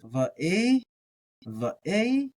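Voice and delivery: "V, a" with a break before the "a"; "V, a" split carefully at the aleph; aleph pronounced. Shown as a demonstration. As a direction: sound the aleph in "V, a" as its own syllable, rising. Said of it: "try to pronounce the aleph".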